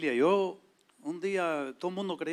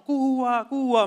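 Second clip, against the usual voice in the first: higher, louder calling out; retold shouting; 8 semitones higher, 7 dB louder, much slower than usual. Men in the neighbourhood calling to the Cuban visitor, high loud call. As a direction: hail him from across the street. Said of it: "me gritaban".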